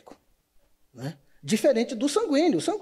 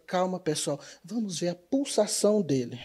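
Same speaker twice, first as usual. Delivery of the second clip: calm reassuring; 4 semitones lower, 5 dB quieter than usual. Retold or imitated. Calm phlegmatic takes charge.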